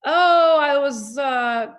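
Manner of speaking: mock-dreamy romantic confession; lovestruck girl. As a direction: gush a little, slowly, as if newly in love. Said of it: "I just thought it was".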